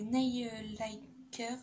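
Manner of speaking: English product name in a heavy French accent. Real, not acted. Vlogger naming a polish to viewers, French-accented English. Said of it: "mon accent pourri en anglais".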